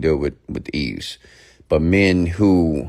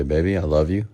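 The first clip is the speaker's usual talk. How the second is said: tender demo. Shown as a demonstration. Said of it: "Do it just like this".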